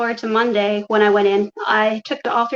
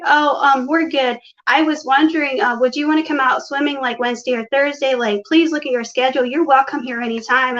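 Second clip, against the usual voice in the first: higher, chatty invitation; imitated friendly sister; 3 semitones higher than usual. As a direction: mimic a sister acting all welcoming. Imitating sister's sweet phone invitation.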